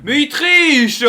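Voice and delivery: loud, slow furious accusation; raging gamer. Real, not acted. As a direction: yell it out, outraged. Repeats accusation louder.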